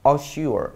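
careful "a-SHOOR", falling at the end; model pronunciation. Shown as a demonstration. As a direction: assure said slowly, stress on sure, falling. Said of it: "일단은 발음부터".

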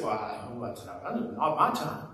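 mild reluctant demurral, low and soft; reluctant son. Retold or imitated. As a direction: shrug it off quietly. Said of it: "And he said".

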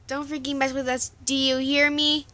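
threatening yell. Acted. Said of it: "Jack screamed".

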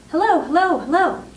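high, loud sing-out like a talking parrot. A narrator's reading. Parrot showing off for visitors, high parrot voice. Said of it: "exactly like a human voice".

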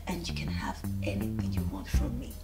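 low, soft whispered promise; seductive whisper. Acted. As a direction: breathe the promise like a secret. Wife seductively promising husband.

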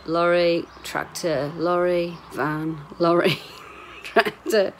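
loud game of naming lorries; calling out vehicles. Real, not acted. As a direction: call each one out as it passes. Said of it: "it's like a game, innit".

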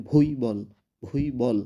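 "ভুইবল" in two clear parts, bhui-bol; "ভুইবল" as a careful model for learners; Russian pronunciation demo. Shown as a demonstration. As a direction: say "ভুইবল" with a drawn first bhui. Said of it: "উচ্চারণটা হবে".

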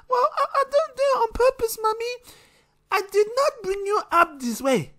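high voiced scolding mum, mock stern; a mother threatening her child, hammed-up; mum telling off a kid. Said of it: "she don't say Theta".

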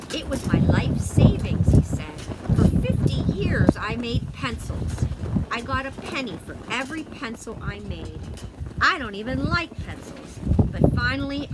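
a lightly voiced eager old man; hammed-up old Mister Finch.

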